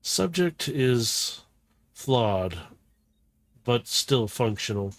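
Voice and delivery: soft, slow, detached appraisal; cold scientist verdict. Acted. Scientist judging the wounded robot, slow and detached. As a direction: judge the test subject coldly. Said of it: "He goes".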